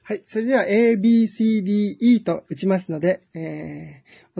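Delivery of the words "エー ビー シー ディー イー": dictating. Shown as a demonstration. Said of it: "音に合わせて書き取っていってください".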